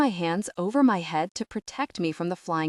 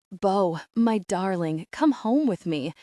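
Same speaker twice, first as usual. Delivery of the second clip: pleading. Acted. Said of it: "he pleads".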